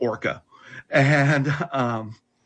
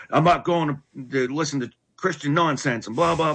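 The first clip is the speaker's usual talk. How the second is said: tantrum; 4 semitones higher than usual. Retold or imitated. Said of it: "in this big tantrum of".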